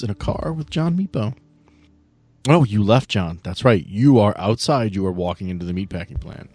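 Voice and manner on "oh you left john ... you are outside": ordinary delivery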